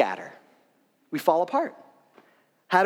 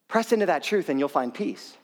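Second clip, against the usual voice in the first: calm assurance. Real, not acted. Repeats exhortation, settling toward peace.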